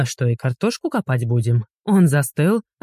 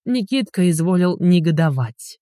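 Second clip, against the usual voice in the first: ordinary delivery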